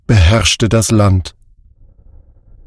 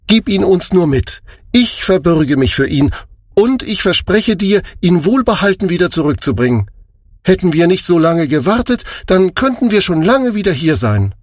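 higher, fast, earnest promise; earnest Juda; 6 semitones higher than usual. A narrator's reading. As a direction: vow it with conviction. Juda vows to father.

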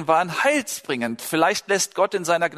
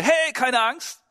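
mock reassuring shout; 7 semitones higher, slower than usual. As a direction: call out reassurance without really shouting. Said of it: "schreien würde".

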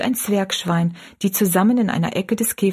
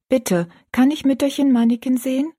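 put-on girl; 6 semitones higher than usual. Rosalie, girl voice in story.

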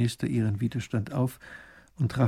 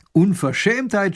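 a slow, loud, higher indignant scold; 8 semitones higher, 6 dB louder, slower than usual. Acted. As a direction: spit out the outrage. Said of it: "schimpft Raffin". (laut und empört schimpfend)

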